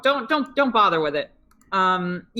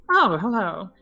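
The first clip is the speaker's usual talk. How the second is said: stiff robot greeting; robotic voice. Acted. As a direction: speak like a polite robot. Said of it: "clearly a robotic voice".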